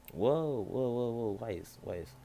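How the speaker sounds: high, loud whoa then settling; startled. Acted. Kissed suddenly by Weiss, he blurts out in surprise. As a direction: pull back in shock.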